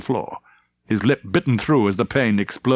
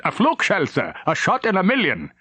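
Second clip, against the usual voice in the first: raised, breathless report; urgent report; 9 semitones higher than usual. Acted. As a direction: rush it out down the phone. Urgent report over telephone.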